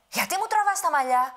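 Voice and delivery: high, loud angry shout; angry giant. Acted. Woken giant angrily shouts at the grandmother. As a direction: roar the complaint. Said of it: "Ξύπνησε θυμωμένος".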